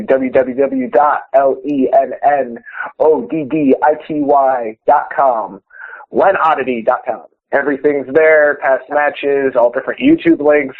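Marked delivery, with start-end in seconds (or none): 0.0-7.2 spelled out slowly. Shown as a demonstration. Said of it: "Do I have to say it a third time?".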